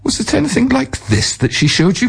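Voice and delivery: high, eerie ghostly question; spring the reveal like a spirit; eerie cry. A narrator's reading. The soba man reveals himself to the merchant, high and eerie. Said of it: "cried the soba man".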